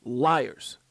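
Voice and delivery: emphatic quote. Retold or imitated. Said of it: "Judge Netborn said".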